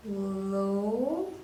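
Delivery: Lo held long and rising at the end; single syllable. Shown as a demonstration. Teacher showing the second syllable, single syllable. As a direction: stretch Lo as a syllable alone. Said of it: "that's another syllable".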